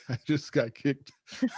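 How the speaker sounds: high, slow words broken by laughter; laughing. Real, not acted. Laughing to the host about getting kicked out of heaven. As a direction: laugh through it in disbelief.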